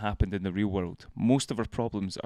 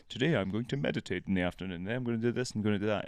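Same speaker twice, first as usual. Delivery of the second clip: quick muttered plans; 4 dB quieter, faster than usual. Pretend. Quoting own plans.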